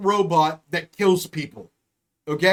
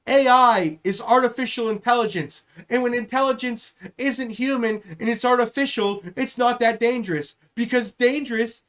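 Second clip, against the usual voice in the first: Kamala Harris impression. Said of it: "that's how the fuck she's gonna talk about it".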